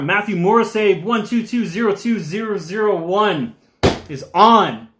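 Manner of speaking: hyped shout-out. Pretend. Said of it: "Shouted out to the fullest just now".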